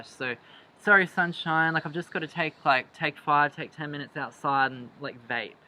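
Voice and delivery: lightly voiced startup bro on the phone; startup guy voice. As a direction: play a casual office bro taking a call. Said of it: "one of those offices that's like a startup".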